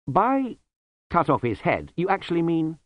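a startled novice checking he heard right; nervous young monk asking in disbelief; young monk Lobsang. Acted.

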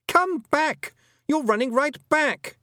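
high, loud call; boy shouting. A narrator's reading. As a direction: shout urgently after a runaway. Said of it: "shouted Roland behind her".

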